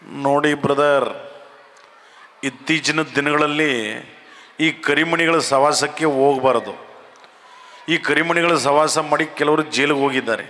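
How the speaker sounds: unhurried evasive minister talking to reporters; HD Kumaraswamy impression. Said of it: "H D Kumaraswamy ಅವ್ರು ಹೆಂಗೆ ಮಾತನಾಡೋದು ನೋಡಿ". (ನಿಧಾನವಾದ ರಾಜಕಾರಣಿಯ ಉತ್ತರ)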